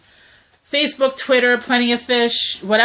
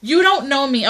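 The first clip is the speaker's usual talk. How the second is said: higher, sharper put-down; indignant retort; 4 semitones higher than usual. Pretend. Woman answering a presumptuous guy on a dating site, higher and indignant. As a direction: snap it back at him, offended. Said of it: "one thing I have to say".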